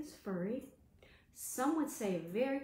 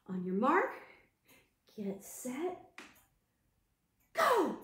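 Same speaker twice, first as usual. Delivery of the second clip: race start call; 2 semitones higher, 4 dB louder than usual. Acted. Teacher starting the race, shouting go. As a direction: fire off the start.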